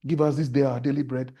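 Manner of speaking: loud, rote recital of a familiar prayer; demonstrating a memorised prayer, projected; recited Lord's Prayer. Shown as a demonstration. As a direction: recite it out like a congregation. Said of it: "how do you even recite it?".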